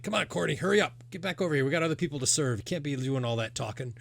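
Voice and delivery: lightly voiced father hurrying his daughter along; impatient innkeeper. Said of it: "he's like".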